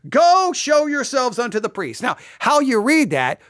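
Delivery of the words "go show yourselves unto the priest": raised, firm order; cold command. Retold or imitated. Preacher quotes Jesus sending lepers to priests, commanding. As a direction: send them off firmly with no sympathy, higher pitch. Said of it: "it almost seems cold".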